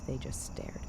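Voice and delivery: a soft, unvoiced hush for the scary part; eerie whisper. A narrator's reading. Narrator telling a bedtime horror story to listeners, eerie whisper. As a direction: breathe it out in a hushed whisper.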